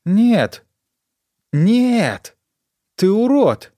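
high, loud cry of refusal; sharp shout. A narrator's reading. Donna recoiling from his touch, high loud shout. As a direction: fling the words at him. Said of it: "резко выкрикнула она".

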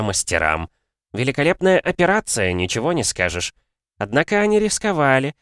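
high, sly mocking captive; a gloating prisoner lecturing his captor; smug alchemist. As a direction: purr your scorn at the hound. Alchemist Ksarberus speaks.

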